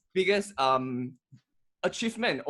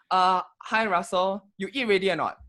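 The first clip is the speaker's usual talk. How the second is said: Singlish. Pretend. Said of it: "let's exchange a few sentences in Singlish".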